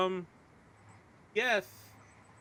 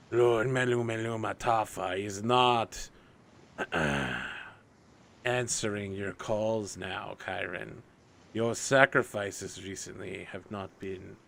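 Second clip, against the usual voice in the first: slow, measured demonic receptionist; formal infernal messenger from a portal; 4 semitones lower, slower than usual. Acted. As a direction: take the call slowly and formally, mostly lower. Voices a portal messenger on a call.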